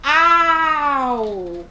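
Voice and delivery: a loud "Au!" like a dog barking; playful loud bark. Retold or imitated. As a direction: bark once for the kids. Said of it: "o que é que o cachorro faz".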